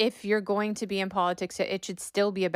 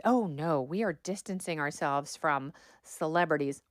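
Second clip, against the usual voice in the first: mock prim denial; 5 semitones lower, 4 dB quieter than usual. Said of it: "the campaign comes out and says".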